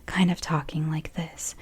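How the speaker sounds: a hushed low-talking demo. Shown as a demonstration. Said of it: "There's whispering and there's low talking".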